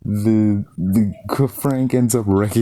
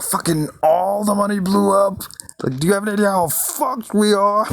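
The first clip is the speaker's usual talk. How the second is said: high, frantic, unlike his own voice; freaking out; 13 semitones higher than usual. Retold or imitated. Howard learns the boat money blew up, high panic. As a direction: play Howard panicking about lost money. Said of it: "he sells it so well".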